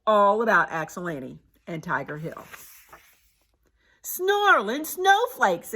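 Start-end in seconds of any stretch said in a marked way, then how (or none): 4.0-5.7 slow, high exclamation; exclaiming. A narrator's reading. Hale reacts to the news about Annie, exclaiming. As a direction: burst out with the oath. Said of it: "exclaimed Hale".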